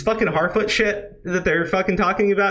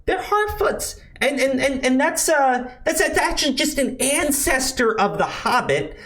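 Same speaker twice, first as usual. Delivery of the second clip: much higher, prissy mock voice; mocking nasal know-it-all; 10 semitones higher than usual. Parodying the showrunners justifying Harfoots, high mocking whine. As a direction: sneer at their excuse in a squeaky whine. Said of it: "they're trying to justify this bullshit by arguing that".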